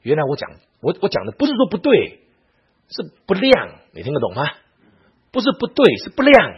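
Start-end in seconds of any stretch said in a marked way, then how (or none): 5.3-6.5 high, loud stress on 不对 and 不亮; emphatic contrast. Real, not acted. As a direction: set 不亮 against 不对 in a raised voice. Driving home a contrast to listeners.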